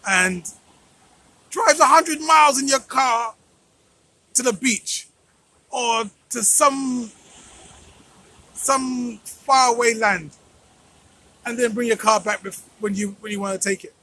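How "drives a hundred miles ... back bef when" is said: indignant exclamation. Real, not acted. Outraged valet parking analogy.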